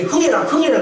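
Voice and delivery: high, urging parent voice; imitated parent at a runny nose; parent prompting nose-blow. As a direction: coax a child to blow their nose. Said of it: "코가 많이 나온지 몰라요".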